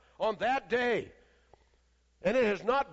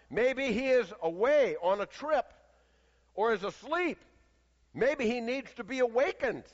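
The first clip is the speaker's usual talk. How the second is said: mocking; 3 semitones higher than usual. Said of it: "began mocking them".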